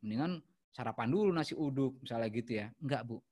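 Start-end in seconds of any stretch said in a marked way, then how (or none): 0.0-2.0 irritated staff. Shown as a demonstration. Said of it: "Hindari bersikap kesal atau marah".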